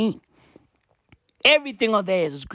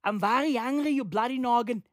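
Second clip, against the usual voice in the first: softer, botched mock-Irish grumbling; bad Irish accent; 7 dB quieter than usual. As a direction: do a fake angry Irishman with a wobbly accent. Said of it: "my accents are all the way fucked up".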